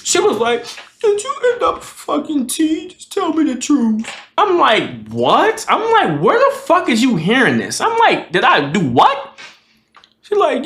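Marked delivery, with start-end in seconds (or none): 1.0-4.1 very high, tearful mock pleading; hammed-up weepy girlfriend; imitated crying. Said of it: "crying like". 5.1-9.4 high, incredulous questioning; indignant retold astonishment; acted disbelief. Retold shocked denial of accusation.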